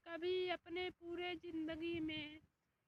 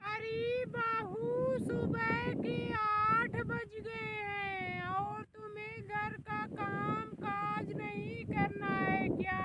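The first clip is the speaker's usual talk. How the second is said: scolding; 4 dB louder than usual. Acted. Mother-in-law scolds late-sleeping daughter-in-law.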